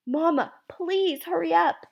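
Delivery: high, slow plea; beg, stretching out the please; pleading. Acted. Boy begs mother to hurry.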